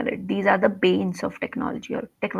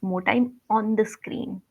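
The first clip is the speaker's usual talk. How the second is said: careful correction; slower than usual. Shown as a demonstration. Teacher models the corrected phrase.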